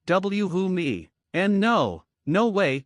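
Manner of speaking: a mild defiant protest; defiant shout. Acted. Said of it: "she shouted defiantly".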